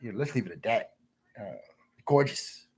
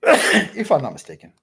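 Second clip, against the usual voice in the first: loud and slow after a cough, leaning on "mistaken"; louder repeat; 9 dB louder than usual. Real, not acted. Correcting himself to chat, loud and slow. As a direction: say it again, slower and much louder.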